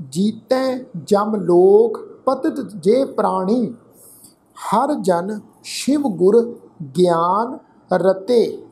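slow, measured Gurbani reading with drawn-out words; scripture recitation. Shown as a demonstration. Teacher reading Gurbani aloud to the congregation, slow and measured recitation. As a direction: recite phrase by phrase, lengthening the endings.

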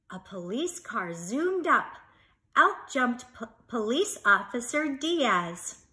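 lively, animated storybook reading; reading to children. Acted. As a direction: read it out big for little listeners. Reads picture book aloud to children.

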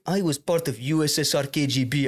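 put-on Armenian accent; retold boast in a thick-tongued Armenian accent; imitated Armenian man. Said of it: "this Armenian guy who thought".

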